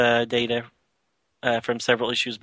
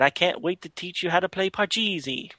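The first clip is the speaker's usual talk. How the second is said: hammy fake Russian accent, pitched higher; bad Russian accent; 5 semitones higher, 3 dB quieter than usual. Podcaster voicing grandfather Sergei, bad Russian accent. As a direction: put on a clumsy, overdone Russian accent. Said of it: "a bad Russian accent".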